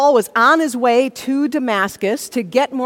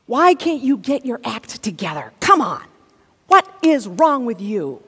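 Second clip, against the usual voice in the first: exasperated mock scolding; condemning self-talk. Inner critic berating a person who falls short, exasperated scolding. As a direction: punch out each reproach. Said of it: "adds a running commentary of condemnation".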